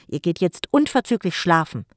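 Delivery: loud order to bed; commanding. Acted. Jim orders the children to bed, loud command. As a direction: give a stern command. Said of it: "befahl Jim".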